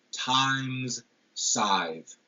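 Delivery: "Time's scythe" as two separately stressed words, long I in both; stressed vowels. Shown as a demonstration. Lecturer quoting Shakespeare to show assonance, both words stressed. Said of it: "we've got the same stressed".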